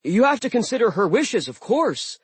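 high, lively dwarf voice; a reasonable dwarf pleading. Acted. Dwarf Blitz speaking.

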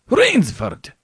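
high, startled scream of a name. A narrator's reading. General finds a man hiding in his bedroom, screaming. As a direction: scream out in shock at the intruder. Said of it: "screamed the general".

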